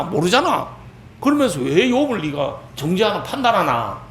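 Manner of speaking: acted, moderately heated telling-off; angry rebuke. Elihu challenging friends who judged Job, acted angry rebuke. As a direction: challenge them with mild mock indignation. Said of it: "성질을 내면서".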